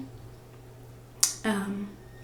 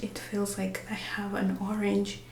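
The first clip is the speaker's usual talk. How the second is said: whispering; 6 dB quieter than usual. Real, not acted. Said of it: "I'm whispering because Miss Rue is taking a nap".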